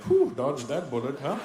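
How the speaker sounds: slow, loud mock relief; loud, drawn-out fatherly relief; relieved dad. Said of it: "Even my dad was like".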